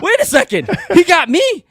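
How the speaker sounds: very high, loud yelp through laughter; hammed-up astonished protest; retold disbelief. Driver on the phone to his wife, laughing disbelief.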